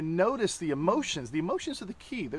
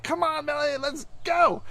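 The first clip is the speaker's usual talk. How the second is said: higher, pressing urge to leave; impatient urging; 10 semitones higher, 5 dB louder than usual. Retold or imitated. Husband imitates himself rushing Melanie, impatiently. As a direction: hurry her along, irritated. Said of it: "So then I'm like".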